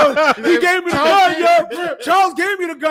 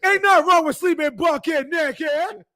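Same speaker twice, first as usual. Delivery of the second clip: movie quote voice. Retold or imitated. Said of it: "and that tone, bucket naked".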